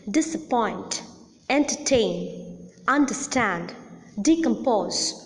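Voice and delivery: disapPOINT, enterTAIN, underSTAND, decomPOSE; last-syllable stress. Shown as a demonstration. Teacher lists Disappoint, entertain, understand, decompose, main stress on the last syllable. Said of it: "the last syllable or the third syllable is the most".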